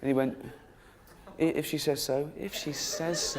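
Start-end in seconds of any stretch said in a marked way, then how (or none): 1.4-3.4 lightly voiced old man, second time slower; meek old man. Old man answering the bloke in charge, meek. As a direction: answer mildly, trailing into a soft slow repeat.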